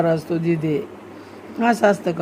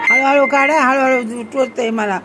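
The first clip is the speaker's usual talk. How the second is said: louder mock plea, slowing down; pretend pain; 4 semitones higher, 3 dB louder than usual. Mother playing patient as child pokes her, mock pained. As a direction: play at being pricked and plead.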